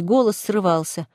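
ordinary delivery

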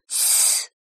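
sharp whispered shush; hushing. Acted. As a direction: silence her at once. Finger to lips.

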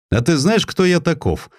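выше, с лёгким вызовом в вопросе; слегка сыгранный властный генерал; надменный генерал. A narrator's reading. Генерал грозно спрашивает атамана. (генерал свысока спрашивает атамана)

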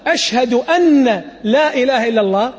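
أن said as أنّ with a doubled nun; wrong doubled nun. Shown as a demonstration. Teacher showing students the common mispronunciation. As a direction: hold the nun of أن twice. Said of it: "هذا كقولك".

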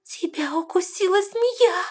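high, slow, horrified gasp; horrified rasp. A narrator's reading. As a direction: rasp it out in horror. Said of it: "С ужасом прохрипела она". (хриплый возглас ужаса)

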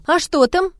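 lifted, inquisitive tone; curious. A narrator's reading. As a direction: ask with piqued curiosity. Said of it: "заинтересовалась я".

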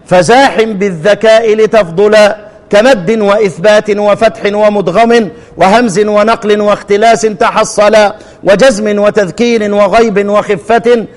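measured recitation of didactic Arabic verse; chanted-style classroom verse reading. Acted. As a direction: recite the poem line by line in steady metre. Recites the teaching poem.

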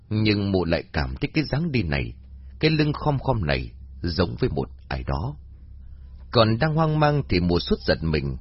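ordinary delivery, nothing marked

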